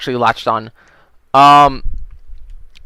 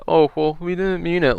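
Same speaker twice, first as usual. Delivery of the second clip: meek backing down; 4 semitones higher, 6 dB quieter than usual. Retold or imitated. Campers suddenly meek.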